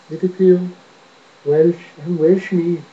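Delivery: put-on lightly squeaky Liverpool-Welsh accent. Attempting Liverpool that comes out as squeaky Welsh accent. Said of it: "sort of a squeaky Welsh".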